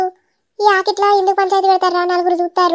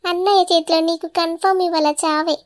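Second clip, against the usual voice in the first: softer, sly taunting voice; quiet gloating; 3 semitones lower, 5 dB quieter than usual. Acted. Sister-in-law gloats to wife, quiet and sly. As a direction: gloat under your breath at her.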